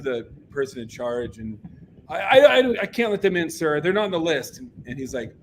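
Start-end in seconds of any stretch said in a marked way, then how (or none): 2.1-4.6 high, stammering gatekeeper imitation; mock flustered protest; retold flustered refusal. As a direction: stammer a nervous apology to an angry man. Flustered gate girl answers Fletcher.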